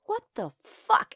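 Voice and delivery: high, slow mock-shocked question; retold stunned reaction; baffled disbelief. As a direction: draw it out high, utterly baffled. Reacting to girl at window.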